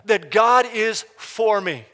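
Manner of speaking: bold, deliberate affirmation of faith; loud declaration. Shown as a demonstration. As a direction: proclaim it to the whole church. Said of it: "But one thing I know".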